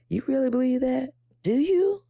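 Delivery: high, fast, mocking doubt; inner saboteur voice. Her inner saboteur doubting the praise, high and mocking. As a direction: needle yourself like a sneering inner critic, rising high. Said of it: "the inner saboteur in me is just like".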